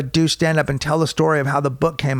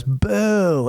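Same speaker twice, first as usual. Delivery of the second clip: mild, higher-pitched imitated boo; heckler's boo; 5 semitones higher than usual. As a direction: mimic a front-row boo. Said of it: "girl in the front row goes".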